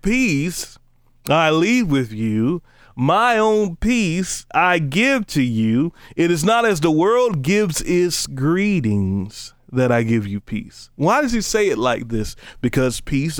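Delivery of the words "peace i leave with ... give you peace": very slow, drawn-out Bible reading; preacher reciting scripture with swelling emphasis. Acted. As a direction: linger on each phrase of the verse. Rereads the verse.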